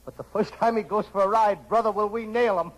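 high, pidgin detective voice; Charlie Chan. Acted. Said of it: "Me, Charlie Chan".

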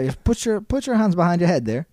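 mild mock Canadian politeness; Canadian accent. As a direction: give orders like a courteous Canadian. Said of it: "That's what Canadians sound like".

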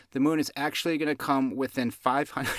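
words held together against a giggle; trying not to laugh while telling a silly joke; fighting back laughter. Real, not acted. Host breaking up at her own joke, laughing. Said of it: "I can't even get it out without laughing".

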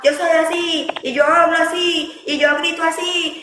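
high, defiant mock-mother voice, a bit fast; stubborn mom. Mother mimicking how she used to talk to her daughter, high and defiant. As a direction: play a mother who won't budge.

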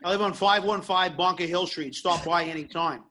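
put-on thick Boston accent. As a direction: talk like a Bostonian. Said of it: "you gotta do a good Boston accent".

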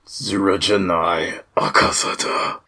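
slow breathy whisper. Pretend. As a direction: whisper it slowly, like a secret. Anime line whispered as a joke.

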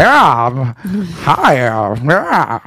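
lightly imitated halting film-star voice; a hint of an actor impression on the phone; Jimmy Stewart. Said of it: "just pretend I'm Jimmy Stewart".

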